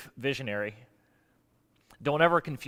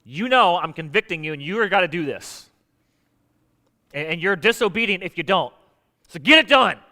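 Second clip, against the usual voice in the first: a hint of a commanding boss God, building louder to the end; demanding God voice; 5 dB louder than usual. Pastor imitating a demanding God ordering the job done, mock commanding. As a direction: play God as a pushy CEO handing down orders. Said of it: "the Steve Jobs God coming down and going".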